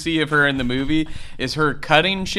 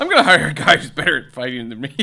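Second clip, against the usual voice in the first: lightly mocking Mark; 2 semitones higher, 4 dB louder, faster than usual. Mocking Mark's plan.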